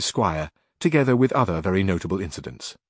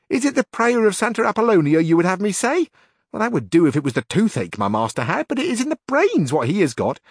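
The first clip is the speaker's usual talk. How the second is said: put-on much higher, louder worried old woman's voice; fretful housekeeper; 10 semitones higher, 4 dB louder than usual. A narrator's reading. Housekeeper tells Carrasco her master is breaking out, high fretful voice. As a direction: wail it like an anxious housekeeper, slowing at the end.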